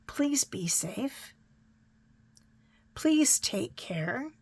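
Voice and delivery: slow, breathy whisper to the audience; soft whispered sign-off. Real, not acted. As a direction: whisper it slowly like a goodbye to friends.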